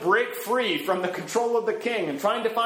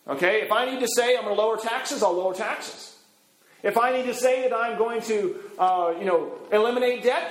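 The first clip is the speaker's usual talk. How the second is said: a slick politician's campaign promises, pitched higher and quicker; glib politician; 4 semitones higher than usual. Retold or imitated. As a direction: reel off promises like a vote-hungry politician. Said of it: "He's acting just like a politician".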